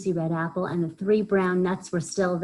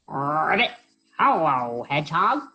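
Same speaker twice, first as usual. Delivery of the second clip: croaking Frog; 4 dB louder than usual. Acted. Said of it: "croaked Frog".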